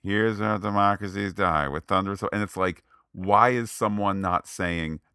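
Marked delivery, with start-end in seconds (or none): 0.0-2.1 mock flat read. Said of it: "It's flat".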